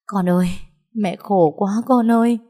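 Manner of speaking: high, loud sobbing plea to her son; crying out. Acted. Mother bursting into tears, clinging to her son, crying. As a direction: wail it out through tears. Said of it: "òa khóc".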